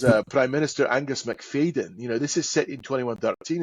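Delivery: usual speaking voice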